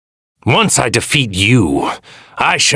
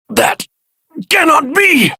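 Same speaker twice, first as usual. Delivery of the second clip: disbelieving shout. Acted. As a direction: refuse to believe it, yell. Villain in disbelief at defeat.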